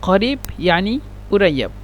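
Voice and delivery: first قريب with a full q, then قريب said /urajab/ with the q dropped; colloquial pronunciation. Shown as a demonstration. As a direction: drop the q the Egyptian way. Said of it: "بس عند النطق".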